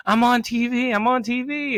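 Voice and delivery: high, overjoyed squeal; bursting to tell mom he is on TV; mock excited shout. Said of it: "It's like".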